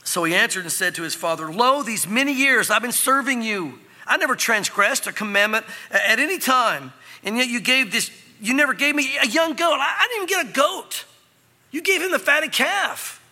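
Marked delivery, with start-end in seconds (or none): 1.5-13.2 high, rising, aggrieved protest; angry older brother. Acted. Older son protesting to his father, hurt and angry. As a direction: complain with mounting indignation. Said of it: "But he was angry".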